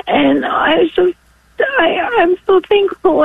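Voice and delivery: choked-up thanks; real tears welling up; tearful. Real, not acted. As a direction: voice catching on thankful. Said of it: "I wasn't expecting to get so emotional".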